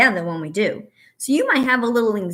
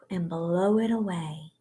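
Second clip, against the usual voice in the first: calming mantra. Shown as a demonstration. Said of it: "I can do this".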